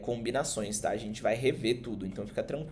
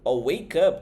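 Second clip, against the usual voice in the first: loud pronunciation demo; 2 semitones higher, 6 dB louder, slower than usual. Shown as a demonstration. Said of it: "como é que você pronuncia?".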